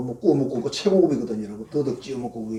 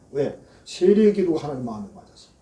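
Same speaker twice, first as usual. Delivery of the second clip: ordinary talk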